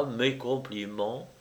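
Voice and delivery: softly quoted, unconcerned; understated, detached; calm, indifferent. A narrator's reading. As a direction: repeat it quietly with a slight lift. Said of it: "d'une voix parfaitement calme, indifférente".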